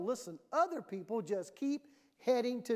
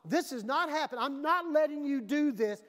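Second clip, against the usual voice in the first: firm friend; 4 semitones higher, 4 dB louder than usual. Acted. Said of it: "you gotta go".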